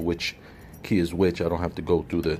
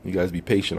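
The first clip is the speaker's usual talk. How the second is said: talking around a cigar in mouth; words muffled by a cigar in mouth; 3 semitones lower than usual. Real, not acted. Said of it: "'cause I got the cigar in my mouth".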